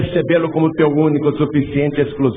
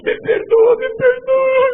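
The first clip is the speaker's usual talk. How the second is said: tearful plea; 4 dB louder, slower than usual. Retold or imitated. Sergeant weeping asks forgiveness.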